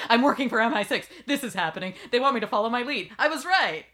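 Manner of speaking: breathless overexcited confession; excited blurting. Retold or imitated. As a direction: spill it all out in a rush of excitement.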